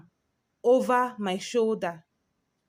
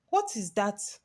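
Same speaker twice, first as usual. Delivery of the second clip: shaky voice; 3 dB quieter than usual. Acted. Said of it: "my voice shaky".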